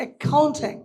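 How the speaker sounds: accounting drawn out very slowly; model pronunciation. Shown as a demonstration. Teacher to BBA students, slow model accounting. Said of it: "তোমাদের BBA তে এটা লাগবে".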